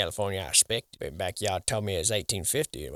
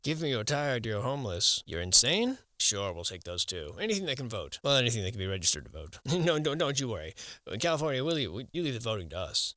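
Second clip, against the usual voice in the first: California government impression. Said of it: "That's my impression of the California government".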